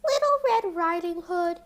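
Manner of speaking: the wolf pretending to be Little Red Riding Hood; wolf faking a girl. A narrator's reading.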